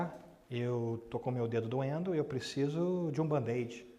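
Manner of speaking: put-on soft, slow hurt-child voice; a hint of a small child explaining slowly; lightly voiced child. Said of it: "Aí a criança para e fala".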